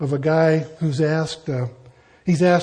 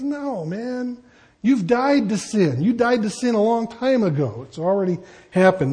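casual Paul; 5 semitones higher than usual. Retold or imitated. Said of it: "And Paul says".

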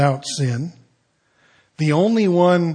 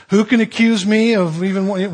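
bold challenge; 4 semitones higher, 5 dB louder than usual. Retold or imitated. Jesus challenges the crowd again.

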